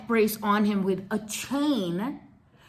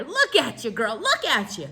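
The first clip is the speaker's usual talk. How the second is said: high voice with a laugh in it; laughing at her; 6 semitones higher than usual. Retold or imitated. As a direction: tease her through a laugh. Clerk laughing at her costume.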